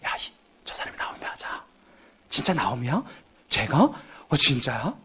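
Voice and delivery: hushed gossip about the newcomer; whispering townsfolk trading rumours. Retold or imitated. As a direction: whisper behind her back. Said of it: "뒤에서 쑥덕쿵거리면서 얘기했겠죠".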